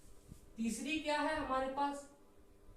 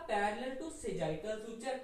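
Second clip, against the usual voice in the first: very slow, stretched words; slow read-back; much slower than usual. Shown as a demonstration. Teacher reading notes slowly off the board. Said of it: "यहां पे क्या लिखा".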